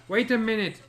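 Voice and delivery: high, loud call. A narrator's reading. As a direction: shout to stop her. Stopping someone leaving.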